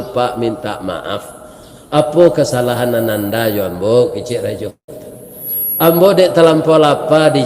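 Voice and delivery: humble plea. Acted. Pious youth pleads before the king.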